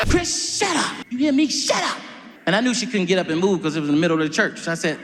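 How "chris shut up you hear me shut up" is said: mama scolding. Retold or imitated. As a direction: snap at him like a church mama. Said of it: "mama in church".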